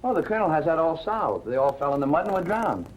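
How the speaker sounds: dry, understated irony; ironic. Acted. Investigator needling the Colonel over his theory, ironic. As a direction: feign agreement with a dry edge. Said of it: "I see no necessity for your irony".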